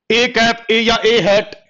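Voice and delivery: "ए कैप" said clearly as "ay cap", then "ए हैट" as "ay hat"; name the symbol "ए कैप" slowly for the class; reading the symbol aloud. Shown as a demonstration. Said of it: "ऐसे पढ़ा जाता है". ("ए कैप" को साफ़ साफ़ "ए कैप" और "ए हैट" बोलकर पढ़ाना)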